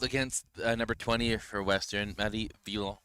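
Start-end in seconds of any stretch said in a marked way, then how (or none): 2.2-3.0 the name said the French way; a touch of French accent on the name. Shown as a demonstration. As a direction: Marie Villon in a light French accent. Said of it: "saying it in a French accent".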